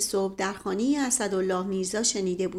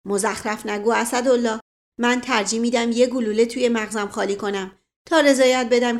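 louder, heated colonel cutting him off; sharp retort; 3 dB louder than usual. Acted. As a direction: snap back in rising anger. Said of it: "با لحن تندی حرف او را برید".

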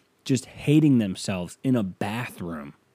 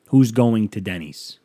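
louder, slow exasperated question; 8 dB louder, slower than usual. Real, not acted. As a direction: hurl it out in disbelief. Ranting about Denny's.

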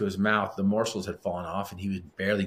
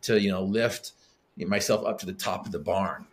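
mock what-if musing. Mimicking his what-if thoughts.

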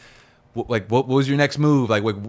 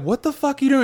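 incredulous coworker; 13 semitones higher than usual. Retold or imitated. Coworkers scolding in story.

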